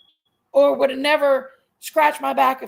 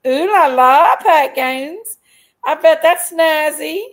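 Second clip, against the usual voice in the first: mock posh tease; 3 semitones higher, 8 dB louder, slower than usual. Teasing reading of a chat comment.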